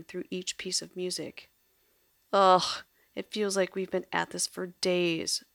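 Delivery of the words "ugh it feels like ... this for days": a loud groan then a tired complaint; moaning. Acted. Francoise moans to Staccato, weary. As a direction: moan about the endless search. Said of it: "moaned Francoise".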